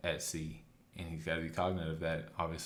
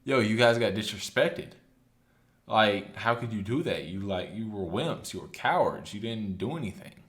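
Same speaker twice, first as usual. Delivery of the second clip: put-on upset kid; 2 semitones higher, 4 dB louder than usual. Luffy scolding the crew for being wimps, upset shout. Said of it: "Luffy is super upset".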